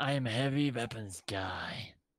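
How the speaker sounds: very serious, solemn, and intimate. Asked by a listener to give it your best, say it very seriously and intimately. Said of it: "say very seriously and intimately".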